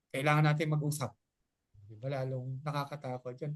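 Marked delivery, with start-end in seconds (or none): 0.1-1.1 quick, clipped, ominous "Kailangan natin mag-usap"; stern serious. Retold or imitated. Person who scares you with bad news, said ominously. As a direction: make it sound like trouble is coming. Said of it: "ang pagkakasabi ng iba yung delivery".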